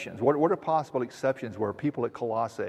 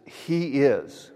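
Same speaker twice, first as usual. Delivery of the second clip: "he is" said firmly with weight; stress on he is; 3 semitones higher, 4 dB louder than usual. Shown as a demonstration. Pastor shows the congregation the emphatic he is, stressed. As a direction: lean on the words he is, as if underlined. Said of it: "would be underlined".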